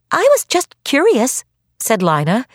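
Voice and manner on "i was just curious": put-on high, sweet innocent child voice. A narrator's reading. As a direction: play it wide-eyed and innocent. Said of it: "in her most innocent voice".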